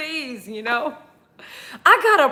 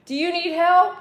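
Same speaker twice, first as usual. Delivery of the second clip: high coaxing; 6 semitones higher than usual. Shown as a demonstration. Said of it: "Like this".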